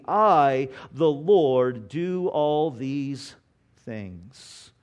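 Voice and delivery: slow, weighty declaration of God's words; solemn scripture reading. Acted. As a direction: proclaim it like the voice of God. Preacher reads Isaiah aloud.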